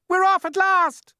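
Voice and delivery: high, loud excited shout. Acted. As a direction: cheer it out. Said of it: "someone was shouting".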